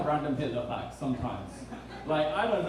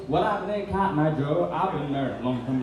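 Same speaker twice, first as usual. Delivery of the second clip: put-on Southern accent. Maintenance guy talking to confused newcomer, mock Southern accent. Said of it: "with the Southern accent".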